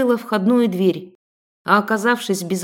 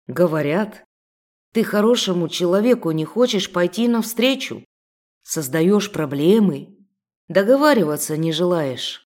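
menacing thug voice; 2 semitones lower than usual. Acted. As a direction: lean in and menace her. Thug threatens heroine.

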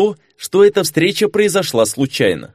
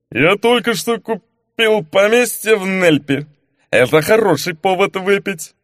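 lightly voiced drunk; 6 semitones higher than usual. Duke boasts to the informant, lightly played drunk. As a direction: slur it like a merry drunk.

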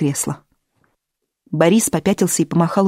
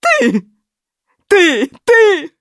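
rising shriek, higher and louder each time; 12 semitones higher, 6 dB louder, much slower than usual. A narrator's reading. Natali shrieks at her son, rising screech. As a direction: build to a screech. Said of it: "завизжала".

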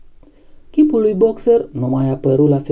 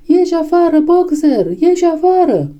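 high, urgent crowd call; taken-up cry; 11 semitones higher than usual. A narrator's reading. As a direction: cry out like a whole desperate herd. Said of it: "Toate animalele preluară strigătul". (strigăt disperat al mulțimii, pe ton înalt)

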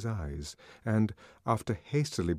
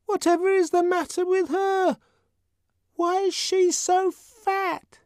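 put-on kids staring, dragging out the question; curious twin children; 6 dB louder than usual. A narrator's reading. Twins at the foot of Linda's bed, high childish voice.

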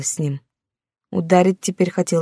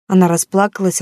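ordinary delivery

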